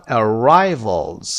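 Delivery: arrivals stressed on RI; second-syllable stress. Shown as a demonstration. Teacher shows the stressed syllable, ar-RI-vals. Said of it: "the second syllable".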